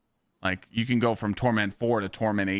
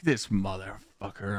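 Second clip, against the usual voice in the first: slow, drawn-out muted grumble; mock exasperation; 2 semitones lower, 4 dB quieter, slower than usual. Client grumbling about his tattoo artist, mock exasperated. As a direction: stretch it out as a mild retold grievance. Retold reaction to painful tattooing.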